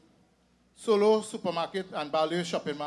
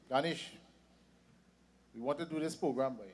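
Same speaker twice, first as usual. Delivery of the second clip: put-on Indian accent; 4 semitones lower, 7 dB quieter, faster than usual. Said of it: "with this Indian accent".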